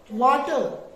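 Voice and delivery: वाटर ending in a light, clipped r; teacher demonstrates वाटर to her class, r softened; soft r. Shown as a demonstration. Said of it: "इसीलिए इसको पढ़ते हैं वाटर".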